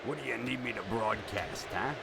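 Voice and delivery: a light hint of a crooning old radio DJ; old-timey radio host. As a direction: coax the listener like a fifties DJ, lightly. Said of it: "Old-timey radio".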